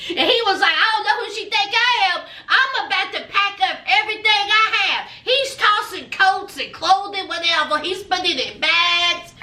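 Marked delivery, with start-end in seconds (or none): 0.7-5.1 fast, higher-pitched mock rant; temper tantrum. Boyfriend packing up after the fight, temper tantrum. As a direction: imitate a huffy tantrum in a rush. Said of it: "he having a temper tantrum".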